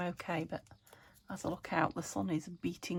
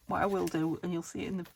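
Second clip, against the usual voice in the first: hiccuping; faster than usual. Real, not acted.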